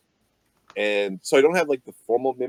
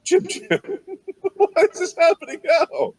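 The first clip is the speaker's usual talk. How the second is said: laughing disbelief; 14 semitones higher, 5 dB louder than usual. Real, not acted. Player laughing, shocked.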